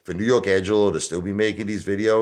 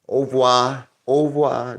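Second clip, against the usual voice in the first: teasing fake-French "Au revoir", higher and louder; mock French goodbye; 7 semitones higher, 5 dB louder than usual. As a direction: mimic friends mocking a French name. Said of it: "What are you, French?".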